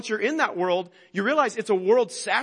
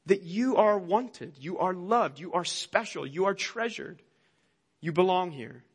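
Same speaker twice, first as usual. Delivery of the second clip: the same words again, softer and falling, tender; gentle reassurance; 3 dB quieter than usual. Acted. Pastor gently reminds listeners they belong, soft and tender. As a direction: let each line settle quietly like a reassurance. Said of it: "It all reminds us".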